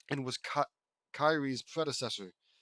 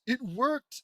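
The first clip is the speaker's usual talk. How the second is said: higher, louder thrilled cry; excited exclamation; 10 semitones higher, 5 dB louder than usual. Acted. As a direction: shout it out, thrilled that it worked. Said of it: "exclaims Lily".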